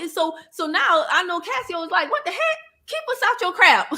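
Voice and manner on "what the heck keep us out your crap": high-pitched, laughing protest; hammed-up high outburst through laughter; mock exasperation. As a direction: voice an indignant company, pitched way up. Voices an exasperated company, laughing.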